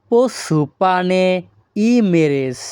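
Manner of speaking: teacher models পোস সুপানে ই মেরেস in Greek; Greek phrase demo. Shown as a demonstration. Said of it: "এই বাক্যের Greek ভাষা হবে".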